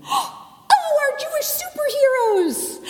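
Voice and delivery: high, delighted outburst; a child's thrilled cry in the service; excited blurt. Acted. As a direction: blurt it with sudden joy. Sarah blurts during sermon.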